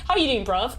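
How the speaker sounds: playful, badly faked British slang greeting; bad British accent. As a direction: have a light go at British "bruv". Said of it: "what's the British word?".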